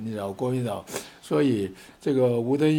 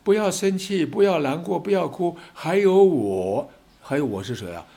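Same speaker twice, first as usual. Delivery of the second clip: rally call to voters; 3 semitones higher, 3 dB louder than usual. Acted. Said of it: "这个时候有没有人出来啊".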